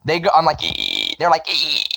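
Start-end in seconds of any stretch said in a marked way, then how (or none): 0.6-1.2 squealed "ee", short of full height; vocal-fry squeal on "ee", the lower version; lower chirp attempt. Shown as a demonstration. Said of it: "sixty percent their pitch". 1.5-1.8 piercingly high "ee" pig squeal; high squealed "ee", the higher version; very high chirp. Shown as a demonstration. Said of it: "they go so fucking high up there".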